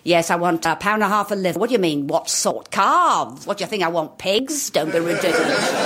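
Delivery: lightly played fussy South London mother; demanding customer, indignant at silly questions; South London Jewish mother. Improvising at the butcher's, a touch of South London Jewish mother. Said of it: "recognisable as sort of South London".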